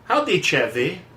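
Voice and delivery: a hint of a chatty old Jewish lady; Missus Nussbaum. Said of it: "Missus Nussbaum was a Jewish lady".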